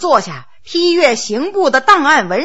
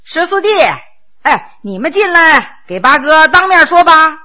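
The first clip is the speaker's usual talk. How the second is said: calling to the next room, a touch louder; 3 dB louder than usual. Acted. Ninth brother calling the others in from the outer room. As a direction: call them in from outside. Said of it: "冲着外屋叫了一声".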